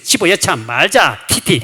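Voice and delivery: loud, slowed mock squabbling with spitting noises; spluttering quarrel. Deaconess squabbling over kimchi seasoning, spluttering quarrel. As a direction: act out spit-flying bickering. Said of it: "침을 튀기면서 뺏고".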